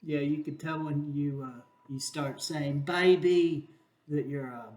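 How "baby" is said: lightly mocked British accent, louder; failing British accent. Shown as a demonstration. Host shows where the accent slips, mock British accent. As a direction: say it in a slipping, put-on British accent. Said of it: "British accent is, uh, going to seed".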